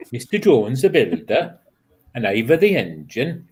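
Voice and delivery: lightly put-on Welsh lilt; attempted Welsh accent. Reciting Welsh names to the group, light Welsh accent. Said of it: "you've got to do a Welsh accent".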